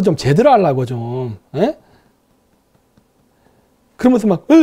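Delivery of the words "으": imitated shuddering "euu" of rage; mock trembling groan. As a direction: mimic someone trembling as they groan. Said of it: "막 부들부들 떠는 거예요". (부들부들 떠는 소리 흉내)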